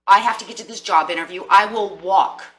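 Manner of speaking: pushed out with grit; determined declaration. Retold or imitated. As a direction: insist you'll walk there anyway. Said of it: "this inner strength is gonna say".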